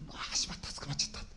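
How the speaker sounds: hushed, whispered inner groan; dismayed aside. Retold or imitated. Boy caught at the shoe lockers, whispered dismay. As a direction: whisper it to yourself, sunk. Caught by counselor, muttered to self.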